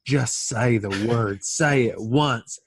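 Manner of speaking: insistent husband. Retold or imitated. Husband pushing his wife to say it, slow. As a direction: spell it out slowly. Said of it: "He's like".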